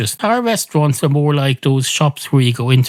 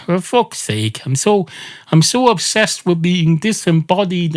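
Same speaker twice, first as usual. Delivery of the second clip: fussy apologetic maitre d'; 3 semitones higher than usual. Acted. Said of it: "And the maitre d' says".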